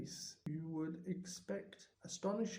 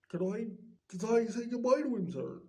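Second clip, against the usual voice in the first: tearful plea; 4 semitones higher, 6 dB louder, faster than usual. Acted. Hagrid pleading, about to cry.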